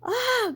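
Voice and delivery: high, drawn-out grunted "ah"; a startled-sounding grunt, pitched right up. A narrator's reading. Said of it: "grunted Dad".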